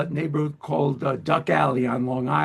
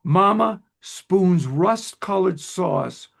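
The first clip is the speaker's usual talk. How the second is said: slow, measured poetry reading; deliberate, line-by-line verse delivery; poem recitation; slower than usual. Acted. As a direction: read the poem aloud with pauses between phrases. Reads guest's poem aloud.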